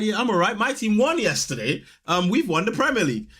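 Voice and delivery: smug. Retold or imitated. Smug fan gloating to rival colleagues in the office. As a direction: gloat about the win. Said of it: "I'm the smug one".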